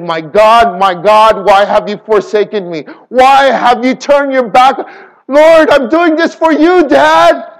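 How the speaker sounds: rising cry of abandonment from the cross; Jesus crying out. Retold or imitated.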